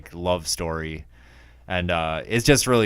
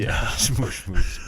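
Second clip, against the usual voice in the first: laughing; slower than usual. Real, not acted. Laughing at the South Park joke.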